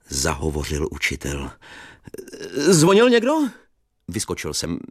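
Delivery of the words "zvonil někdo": put-on cheerful old teacher. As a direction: chatter fondly like a relieved old teacher. Teacher asks.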